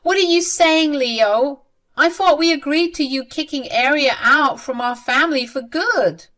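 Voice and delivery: frustrated mother confronting her son. Acted. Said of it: "Lena got super frustrated and said".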